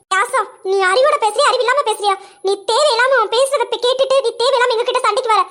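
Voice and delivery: heated, rising reproach; exasperated. Acted. Friend pleading against a needless fight, exasperated. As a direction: argue urgently to make her see sense.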